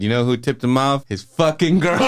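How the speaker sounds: mock-bitter punchline, rising in pitch; comic grudge against women; imitated bitterness. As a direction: build to an indignant reveal, laughing. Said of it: "He was mad at all women".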